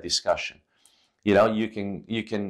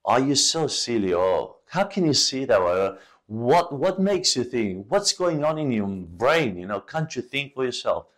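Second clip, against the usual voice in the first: mock accusing; 3 semitones higher than usual. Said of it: "point the finger".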